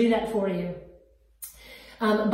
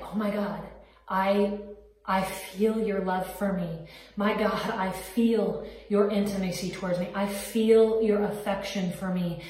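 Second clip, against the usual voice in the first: soft, hushed words poured out to God; tender prayer; 3 dB quieter than usual. Retold or imitated. A woman recalls praying alone to God, softly tender. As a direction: pray it quietly, as if God is right beside you.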